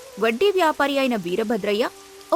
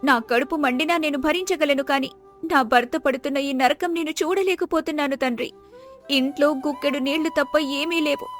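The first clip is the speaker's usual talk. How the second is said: higher-pitched, anguished woman's voice; grieving poor wife; 4 semitones higher than usual. Acted. Wife pleading with God over her suffering husband, grieving. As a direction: lament to God on a high, sustained pitch.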